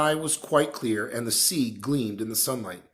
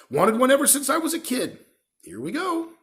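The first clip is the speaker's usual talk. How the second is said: Hagrid, coaxing; 12 semitones higher, 5 dB louder than usual. A narrator's reading. Hagrid voiced higher, louder.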